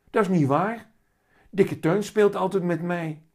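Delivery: put-on high, loud child objecting; protesting little boy. A narrator's reading. Willem protests that his cat plays with him, high child voice.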